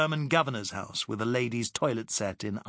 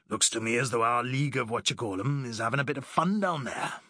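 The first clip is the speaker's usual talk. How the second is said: mild grunt. Acted. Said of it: "grunted Jenkins".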